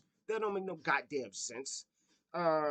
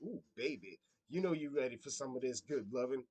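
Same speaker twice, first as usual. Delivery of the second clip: sleazy guy; 5 semitones lower, 4 dB quieter than usual. Retold or imitated. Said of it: "A guy like him come up to her and go".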